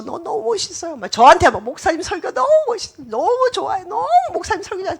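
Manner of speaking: love-bomber flattering the pastor; gushing flattery. Acted. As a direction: lay the compliments on thick and fast. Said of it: "애정 표현을 많이".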